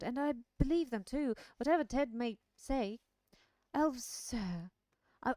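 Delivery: eager country servant voice; humble rustic lad pleading; Sam voice. Acted. Sam character voice in reading.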